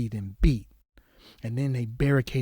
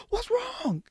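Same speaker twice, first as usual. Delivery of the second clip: imitated shocked gasp. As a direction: play a mother suddenly horrified.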